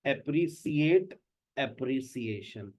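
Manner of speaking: अप्रिशिएट with sh, then अप्रिसिएशन with s; mixed sounds. Shown as a demonstration. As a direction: slowly show the sh then s mismatch. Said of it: "कुछ लोगों ने अप्रिशिएट कर दिया".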